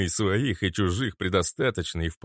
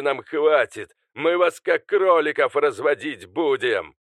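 louder, higher raging villain; furious shouting; 7 semitones higher, 6 dB louder than usual. Acted. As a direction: explode and bellow the threats. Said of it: "выкрикнул".

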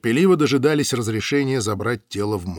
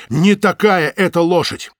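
insistent; 6 semitones higher, 7 dB louder, slower than usual. Acted. Breathless fat man insists.

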